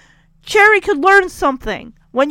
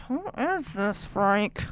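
glowering; 6 semitones lower, 9 dB quieter, slower than usual. Retold or imitated. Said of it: "glowering at this woman".

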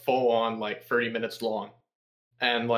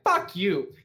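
mock defiance; 6 semitones higher than usual. Arguing back at own inner voice.

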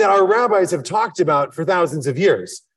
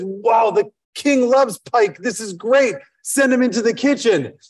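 delighted, a bit raised and slowed, on the king's favourite fish; impressed butler; 5 semitones higher than usual. Acted. Butler admires the pike for the king, in a delighted raised voice. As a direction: announce the great find to the house.

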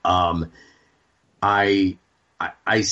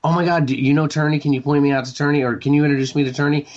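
excited retelling; 5 semitones higher, much faster than usual. Retold or imitated. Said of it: "They're like".

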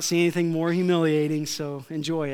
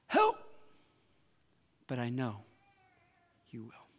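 fading plea; 5 semitones lower, 7 dB quieter than usual. Acted. Preacher closing the sermon on a plea that fades. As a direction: cry out, then settle into trust. Quote, high then fading.

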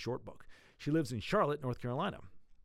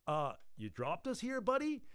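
annoyed; 5 semitones higher than usual. Acted. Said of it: "Preacher sounded annoyed".

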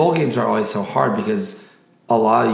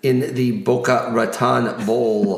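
announcer voice. Acted. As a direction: hype each matchup like a ring announcer. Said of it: "my announcer voice".

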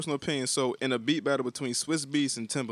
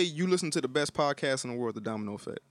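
too fast; 2 semitones lower than usual. Real, not acted. Host requesting a French translation, too fast. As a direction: run "you listen to the best podcast in the world" together quickly. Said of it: "You said it too fast".

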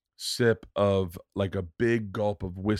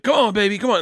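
high, louder coaxing; mock frantic urging; 10 semitones higher, 4 dB louder, faster than usual. Man in sketch begs the ketchup out, mock-frantic high voice. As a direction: egg the bottle on, pitched way up.

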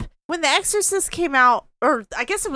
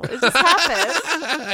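tipsy and slow, laughing; hiccuping; much slower than usual. Real, not acted. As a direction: drawl it out between hiccups. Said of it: "I got drunk hiccups".

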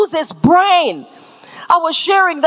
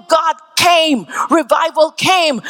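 proclaiming; slower than usual. Acted. Proclaiming revival.

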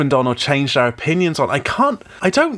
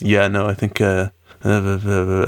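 lower, puffed-up fake grown-up voice; mock mature voice; 6 semitones lower than usual. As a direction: imitate a nervous boy straining to sound mature and deep. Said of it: "trying to show off and sound like he's, you know, really mature".

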